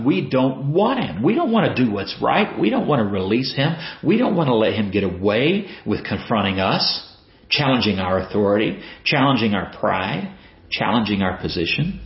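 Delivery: mock shout with insistent rising phrase ends; retold crowd shout. Preacher voicing the crowd refusing to release him, mild mock shout. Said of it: "they shout".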